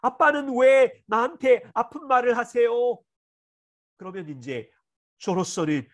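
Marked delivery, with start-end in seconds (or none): 0.0-3.0 accusing protest. Retold or imitated. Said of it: "약점을 잡아서".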